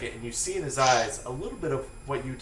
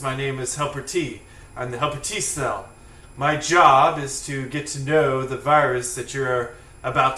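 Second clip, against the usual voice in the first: lightly voiced courteous, proper cell; proper Helper T cell; 4 dB louder than usual. Helper T cell introducing himself to the players, mildly proper. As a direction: introduce yourself with a touch of formality. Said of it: "his properness".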